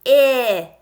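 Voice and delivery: "I" said as ih, as in sit; short vowel ih, not the letter name; short I sound. Shown as a demonstration. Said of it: "I'll say the sound".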